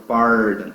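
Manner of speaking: "pardon" with a held first syllable and English R; stress on PAR. Shown as a demonstration. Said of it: "forte é par". ("pardon" com a primeira sílaba forte)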